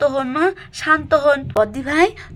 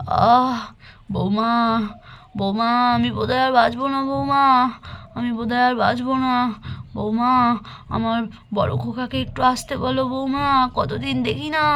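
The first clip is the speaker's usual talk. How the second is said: feverish grandmother.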